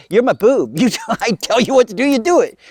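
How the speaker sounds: high, rising outraged command; acted-out incredulous telling-off; indignant bossing. Lilith orders Adam, acted quarrel.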